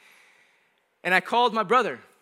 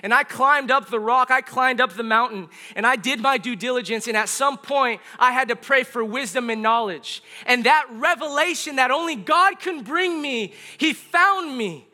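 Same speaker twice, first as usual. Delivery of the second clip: rising testimony, driven phrase by phrase; impassioned preaching; 4 semitones higher, 4 dB louder than usual. Real, not acted. Preaches testimony with raised intensity.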